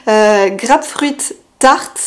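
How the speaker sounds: Grapefruit said the French way, /ɡʀapfʀɥit/, then Tart; French-accented English. Shown as a demonstration. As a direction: read the name with a plain French accent. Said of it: "Désolée pour mon super accent, euh, English". (Grapefruit Tart avec un accent français)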